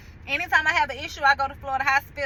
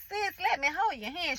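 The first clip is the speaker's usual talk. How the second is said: gentle reassurance; 4 semitones higher, 7 dB quieter than usual. Retold or imitated. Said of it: "she reassured me".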